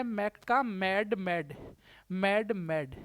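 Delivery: slow and clear "मैक का मैड"; slow teaching read of "मैड"; correct form, slow. Shown as a demonstration. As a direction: spell out the right form deliberately. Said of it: "मैक का होता है".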